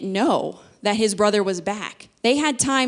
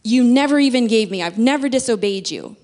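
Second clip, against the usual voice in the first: indignant outburst, louder at the start; mad son; 4 dB louder than usual. Retold or imitated. Preacher voicing the older son's complaint, a touch indignant. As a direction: snap it at the father like a wronged son. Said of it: "The son is clearly mad".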